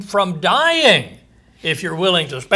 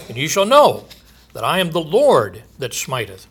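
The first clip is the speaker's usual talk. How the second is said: raised, ringing proclamation of doom; scripture reading. Acted. Preacher proclaiming judgment to his listeners, booming. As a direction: preach the verse out to the congregation.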